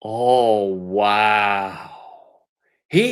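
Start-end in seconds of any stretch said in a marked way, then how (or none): 0.0-1.9 lower, deadpan mock amazement; flat, unimpressed oh wow; dry sarcastic awe. Real, not acted. Sarcastic reaction to clip.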